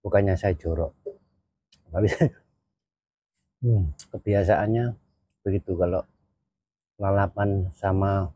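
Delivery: talking between bites; chewing while talking. Real, not acted. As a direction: mouth partly full. Seen 0: Lips pursed between words after eating papaya flowers; he keeps eating.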